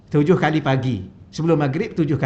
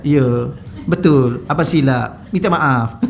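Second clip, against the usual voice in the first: lightly voiced sheepish husband agreeing, a touch lower; playing the humble apologetic husband; meek pitiful husband; 4 semitones lower, slower than usual. Husband humbly apologizing to his scolding wife, mild pitiful voice. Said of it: "buat kesian".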